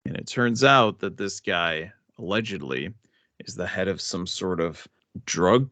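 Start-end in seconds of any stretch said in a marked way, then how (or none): 2.2-2.9 hushed whisper, half a joke; whispered aside. Acted. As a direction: whisper it like a secret. Aside about drug cartel.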